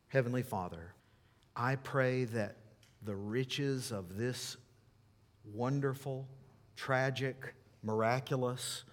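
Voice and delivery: earnest, measured prayer in short phrases; unhurried spoken closing prayer; public prayer. Real, not acted. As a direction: pray aloud for the congregation, pausing between phrases.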